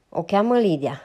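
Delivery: a protective woman cutting the man off loudly; sharp retort. Acted. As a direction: snap the name back at him. Ma corrects Ross sharply.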